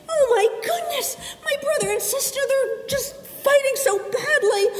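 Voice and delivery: high, fast, near tears; a child's distressed wail, half laughing; upset. Acted. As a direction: fret over the fighting kids. Sarah upset at siblings fighting.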